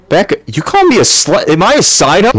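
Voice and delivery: high, sassy mock indignation; mock offended. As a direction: play the scorned lover, hammed-up.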